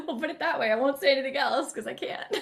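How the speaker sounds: laughing, teasing secrecy; coy giggle hiding news; laughing coyly. Real, not acted. Coy laugh about secret projects.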